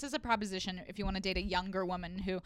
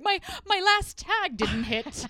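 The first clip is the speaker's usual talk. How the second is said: high, slow fretting comic; mock self-obsessed comedian; whiny comic; 9 semitones higher, 6 dB louder, slower than usual. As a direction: worry over the joke that bombed. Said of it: "I'm like".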